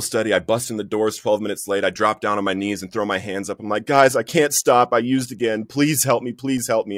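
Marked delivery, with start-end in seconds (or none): 3.9-7.0 higher-pitched re-enacted begging; retold tearful plea. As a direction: act out pleading with friends for help, without real tears. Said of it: "I'm just crying in a mess".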